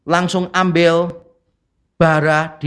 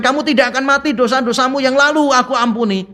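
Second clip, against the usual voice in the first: God forgiving; 6 semitones higher than usual. Retold or imitated. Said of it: "Begitu dia mengatakan".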